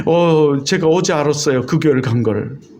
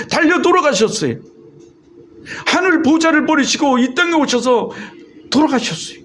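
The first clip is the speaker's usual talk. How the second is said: higher-pitched, rising and falling sermon cadence; fervent preaching; 6 semitones higher than usual. Real, not acted. Pastor telling the congregation of Jesus' sacrifice, fervent preaching. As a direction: preach it with conviction, phrase by phrase.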